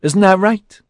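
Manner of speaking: loud, high jeering taunt; triumphant sneer. A narrator's reading. J C taunts Melanie before the bodyguards, sneering triumphantly. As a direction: crow it loudly as an insult. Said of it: "His sneer turned triumphant".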